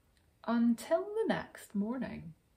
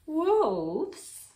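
calling out; 9 semitones higher, 6 dB louder than usual. A narrator's reading.

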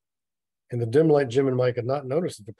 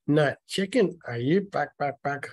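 higher, louder taunt, falling off on the clucks; chicken taunt; 3 semitones higher, 5 dB louder than usual. A narrator's reading. Mike dares Jim by calling him chicken, taunting. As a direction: needle him like a schoolyard bully.

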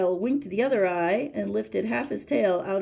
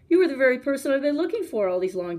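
eager, a touch higher and louder; breathless; 5 semitones higher, 4 dB louder than usual. A narrator's reading. Child finding the crocodile, mildly breathless. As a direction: pant it out in relief. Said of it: "grew all breathless and panted".

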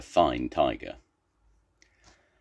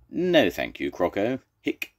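polite refusal cut by a hiccup; 4 semitones higher than usual. Acted. Zebra declines Crocodile's invitation, hiccuping. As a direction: let a hiccup chop off the name. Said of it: "Zebra's got hiccups".

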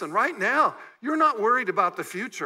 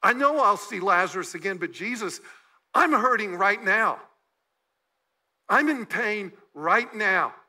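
hurting plea; 3 dB louder than usual. Retold or imitated. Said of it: "She says".

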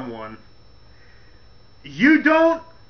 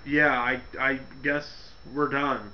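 low mumbled Test; 9 semitones lower, 11 dB quieter than usual. Retold or imitated. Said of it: "Tess is like".

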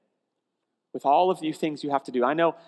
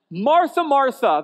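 calling gently; 9 semitones higher, 7 dB louder, slower than usual. Retold or imitated. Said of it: "the Lord answered".

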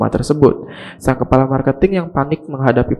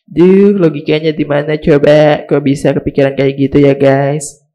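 exasperated; 3 semitones higher, 3 dB louder than usual. Real, not acted. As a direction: drag it out in disbelief. Mocking the show's logic.

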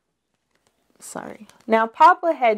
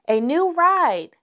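high, eager little bear; excited cub; 8 semitones higher than usual. A narrator's reading. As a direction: point out the ride with delight. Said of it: "shouted Sister".

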